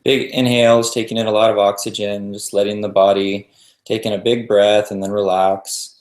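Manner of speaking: calm meditation guide with long pauses between phrases; even, settled voice leaving room to breathe; guided meditation. Real, not acted.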